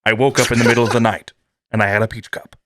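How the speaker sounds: deadpan log entry, a touch formal; lightly voiced captain's log; mock captain's log. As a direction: read it like a starship diary. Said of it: "Captain's log".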